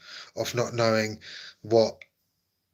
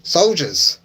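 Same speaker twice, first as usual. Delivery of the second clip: shocked disbelief; 6 semitones higher, 6 dB louder than usual. Pretend. Shocked at missing egg soldiers.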